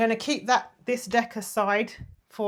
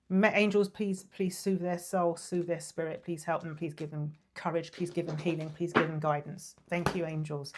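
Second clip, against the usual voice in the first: soft, low plea to the angels; hushed, low prayer of petition; murmured prayer; 4 semitones lower, 5 dB quieter than usual. Real, not acted. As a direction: pray gently, voice lowered. Prays to angels for him.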